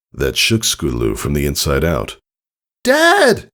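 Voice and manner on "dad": high, loud desperate call; anguished cry. Acted. Daughter crying out as father is struck, high anguished scream. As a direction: scream for him as he falls. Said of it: "she cried".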